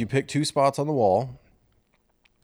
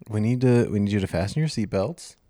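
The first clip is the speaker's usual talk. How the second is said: pilot voice. Shown as a demonstration. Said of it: "Can you do it in a pilot voice".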